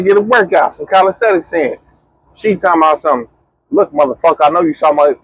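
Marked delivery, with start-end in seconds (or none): 3.7-5.1 hammed-up confrontational mock of his partner, rising on the accusation; overdramatic mock girlfriend. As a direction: overplay her as a dramatic scold. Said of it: "when you hear the emphasis and all the extras".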